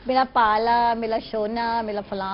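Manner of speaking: put-on lightly lisped baby talk with L for R; mild cooing, toddler-style sounds; affectionate baby lisp. Shown as a demonstration. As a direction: mimic a parent's babyish pet names. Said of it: "پارا نہیں کہیں گے پیارا".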